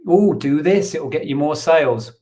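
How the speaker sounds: high, loud mocking singsong. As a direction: parrot the sales pitch sarcastically. Mocking eBay's sales advice.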